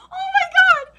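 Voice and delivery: loud, high cry; real tearful outburst. Real, not acted. Reader overcome by mother watching from above, crying out. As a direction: break down mid-reading. Reader breaks down mid-line.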